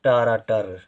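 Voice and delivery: टारा टर, each syllable drawn apart; slow syllable-by-syllable spelling out; split into syllables. Shown as a demonstration. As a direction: break ट्रैक्टर into separate sounds as टारा टर. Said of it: "का कम समय के लिए बोला जा रहा है".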